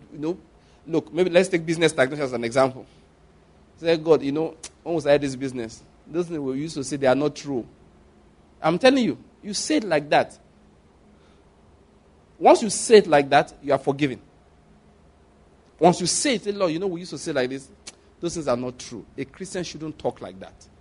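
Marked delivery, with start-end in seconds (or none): 4.0-7.6 softened, conversational confession to God; sincere confession. Shown as a demonstration. Believer confessing to God about the business, sincerely. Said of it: "You must be very, very sincere". 16.5-19.1 sincere confession. Shown as a demonstration. Believer owning up to God in prayer, sincerely. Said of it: "It's called confession".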